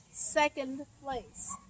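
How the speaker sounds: "Second place" said slowly, O as uh; slow demo. Shown as a demonstration. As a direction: drag out "Second" with an uh vowel. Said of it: "listen to the sound that the O makes in second".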